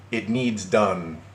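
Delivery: very slow, drawn-out reading; mocking quote. Reading out the ex's odd wording, slowly mocking. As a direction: stretch out the quoted demand. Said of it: "Who talks like that anymore?".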